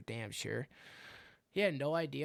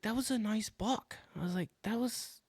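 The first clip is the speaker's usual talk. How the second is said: whiny lament; 8 semitones higher than usual. Retold or imitated. Lamenting lost buck.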